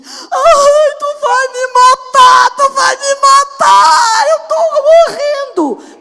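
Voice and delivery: put-on very high, loud, slow wailing child; child screaming. Mother imitates daughter screaming during punishment: very high drawn-out wail. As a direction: shriek it like a kid being punished. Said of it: "Ela gritava bem assim".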